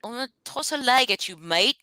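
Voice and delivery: a hammed-up Aussie "mate" at the end; mock Australian accent. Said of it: "I cannot do it".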